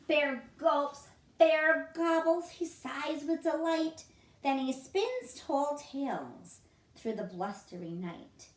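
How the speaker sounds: lively, sing-song picture book reading; reading to children. A narrator's reading. Teacher reading a picture book to children, lively and sing-song. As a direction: read it out like a bedtime story for little ones. Story reading ending slowly.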